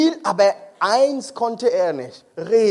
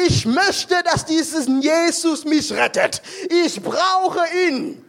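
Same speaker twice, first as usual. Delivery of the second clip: higher, urgent, ending slow; eager plea; 4 semitones higher, slower than usual. Retold or imitated. Cleaner running into the hall begging, higher and urgent. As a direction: burst in pleading to be saved.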